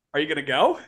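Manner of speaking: mock-puzzled question with a rising lilt; disbelieving referee. Referee to coach lingering on the bench, mildly disbelieving. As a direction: act out a referee's baffled prompting.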